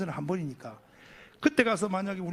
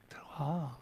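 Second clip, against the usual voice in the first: low, soft call to come in; quiet, unthreatening beckoning; smiling invitation; 6 semitones lower, 6 dB quieter, slower than usual. Retold or imitated. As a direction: coax gently with a smile. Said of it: "웃으면서".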